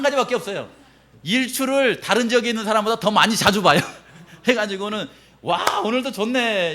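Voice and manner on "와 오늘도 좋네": content. Acted. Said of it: "이렇게".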